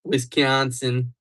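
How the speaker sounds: slow, careful Wisconsin accent; practiced Upper Midwest accent; attempted Wisconsin accent. Shown as a demonstration. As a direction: sound out Wisconsin with Midwestern vowels. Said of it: "Wisconsin accent".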